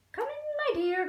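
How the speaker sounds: mock growl. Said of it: "growled the wolf".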